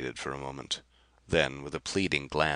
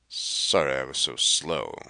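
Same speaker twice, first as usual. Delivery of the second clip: grated; 4 dB louder than usual. Acted. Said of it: "Kar grated over her shoulder".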